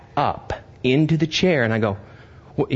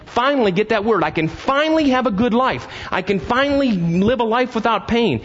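impassioned preaching; 11 semitones higher than usual. Acted. Preacher pleading with his congregation, fervent. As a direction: build the plea higher and higher.

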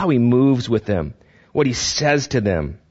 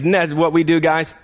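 usual speaking voice

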